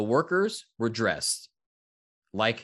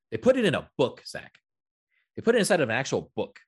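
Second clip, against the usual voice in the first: excited; 4 semitones higher, 4 dB louder than usual. Real, not acted. Excited about speakeasy card book.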